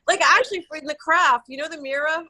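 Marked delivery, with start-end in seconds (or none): 1.7-2.2 "mirror" with the final R dropped, as "mirra"; New York "mirror", ending like "mirra". Real, not acted. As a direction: end "mirror" on an open uh. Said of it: "there I go".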